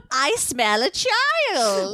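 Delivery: high, very slow witch croon; slow, high witch voice savouring the scent; a singer's movie witch. Pretend. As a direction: drag out each word like a witch sniffing prey. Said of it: "way too good of an impression".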